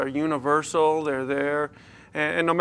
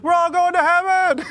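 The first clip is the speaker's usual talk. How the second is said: put-on much higher, louder, delighted child voice; gleeful little girl; 14 semitones higher, 7 dB louder than usual. Daughter Brianna cheering about heaven, high gleeful squeal. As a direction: squeal it with a big smile. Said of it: "she, with a big smile, she goes".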